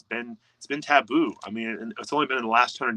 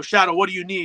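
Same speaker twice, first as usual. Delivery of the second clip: gentle coaxing; 7 semitones higher, 5 dB louder than usual. Retold or imitated. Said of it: "And you go".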